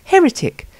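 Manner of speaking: high mock cry of heretic; crowd cry. Mob besieging the Temple of Sigmar, crying out in a high mock shout. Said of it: "with cries of".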